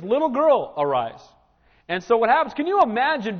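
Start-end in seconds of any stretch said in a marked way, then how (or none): 0.0-1.2 ringing command. Retold or imitated. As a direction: call her back to life. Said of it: "And so he says".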